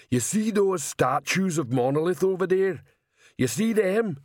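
high-pitched troll growl, menacing. A narrator's reading. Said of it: "he growled".

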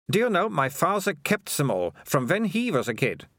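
high character voice, disdainful; Melissa, scornful girl. A narrator's reading. Melissa to Keith about a children's book, scornful.

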